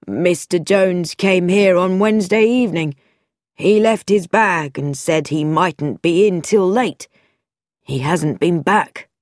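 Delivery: lightly voiced polite hotel clerk; a hint of a helpful receptionist, slowing at the end; mild clerk voice.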